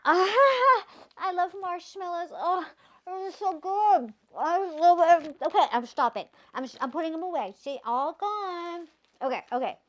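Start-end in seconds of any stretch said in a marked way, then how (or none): 0.1-5.6 giddy marshmallow giggle; laughing. Real, not acted. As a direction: laugh through the words with delight. Gushing over marshmallows while reading.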